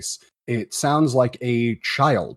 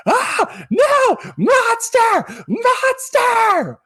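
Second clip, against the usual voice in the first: very high, drawn-out terrified shriek; hysterical screaming child; 5 dB louder, much slower than usual. Acted. Little boy pointing at the parade, hysterical screaming. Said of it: "just screaming hysterically with tears running down his face".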